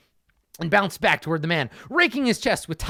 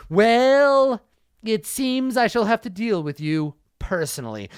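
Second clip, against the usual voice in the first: villain resolve; 5 semitones higher than usual. Acted. Villain steps in himself.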